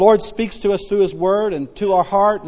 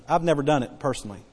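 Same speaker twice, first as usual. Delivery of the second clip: mock denial; 6 semitones lower, 9 dB quieter, faster than usual. Real, not acted. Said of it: "prone to exaggeration".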